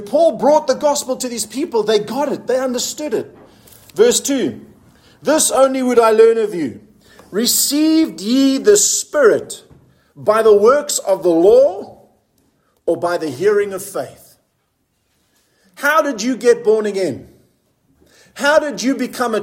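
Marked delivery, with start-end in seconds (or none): 5.2-14.2 scripture reading. Acted. Reads scripture aloud.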